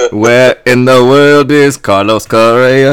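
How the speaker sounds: put-on lightly accented Correa voice; mock Carlos Correa. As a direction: ham up a reality-show star. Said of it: "I'm doing my Carlos Correa".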